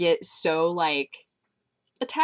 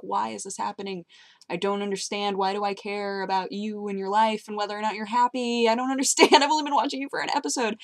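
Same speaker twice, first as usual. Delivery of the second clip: mock bewilderment; 3 semitones higher than usual. Retold exasperation at caring about ponies.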